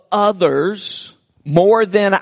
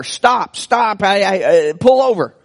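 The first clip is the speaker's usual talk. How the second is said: retold yell; 3 semitones higher than usual. Eight-year-old boy yells at his mom to pull over, retold as a mild yell. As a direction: imitate a boy urgently calling out, held back. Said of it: "he yells at her".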